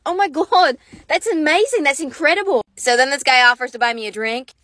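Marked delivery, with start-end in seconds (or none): 0.1-2.6 gushing. Pretend. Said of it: "I'm like".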